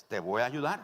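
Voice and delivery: low, composed reply; lightly voiced imposing God. God promising help to the hanging man, composed. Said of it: "Dios con su voz imponente".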